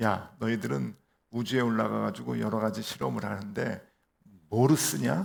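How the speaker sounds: mocking, condescending delivery. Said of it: "무시하듯이 이제 물어봅니다".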